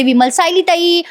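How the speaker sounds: a teller's half-voiced shout of alarm; retold maid calling out on finding her; mild retold cry. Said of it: "ती मोठ्याने ओरडते".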